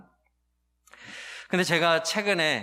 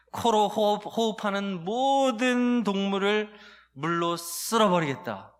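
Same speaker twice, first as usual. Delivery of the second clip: high, louder and slow divine decree; God's wrath; 7 semitones higher, 4 dB louder, slower than usual. Acted. Pastor voicing God judging Noah's world, raised and slow. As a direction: thunder it out as an angry God. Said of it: "하나님의 그 분노가".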